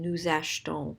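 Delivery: achetons as "ash-ton", no E after the sh; silent E in achetons. Shown as a demonstration. Teacher not wanting the E heard, achetons as "ash-ton". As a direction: run sh straight into t in achetons. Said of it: "we don't want to hear the E".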